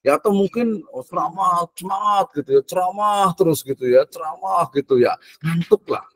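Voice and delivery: lightly mocking drone; mocking boring lecture. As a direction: tease how dull lectures are.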